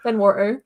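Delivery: "Fenwater" with the T slurred away. Acted. Innkeeper says the family name oddly, T slurred. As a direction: swallow the T in "Fenwater". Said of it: "slurring the T".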